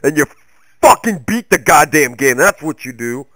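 rally the viewer like a coach yelling; fired-up pep talk. Acted. Mock motivational pep talk.

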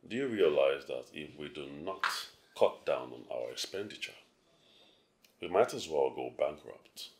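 stern. Acted. Father lecturing daughter about spending.

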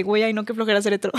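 joking bored tone. Retold or imitated. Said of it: "con mis amigos bromeo de".

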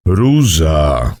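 low, firm elder voice; insistent old man. A narrator's reading. Mimo insists to the boy, low and firm. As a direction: insist in a deep voice. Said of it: "nalegał Mimo".

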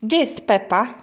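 mother chats with her little daughter about her toy. Real, not acted. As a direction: coax the little one along. Talking to toddler.

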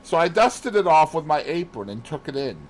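a hint of a chatty maid; flustered maid Annie explaining. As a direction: tell it as an eager servant girl.

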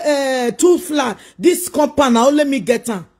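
mock boast. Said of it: "You go say".

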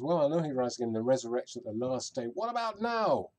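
brushing aside the far future; impatient objection. Acted. Martha objecting to Jesus.

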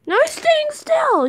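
high, loud, drawn out; exasperated. Real, not acted. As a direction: cry it out in disbelief. Frustrated at idle seeker.

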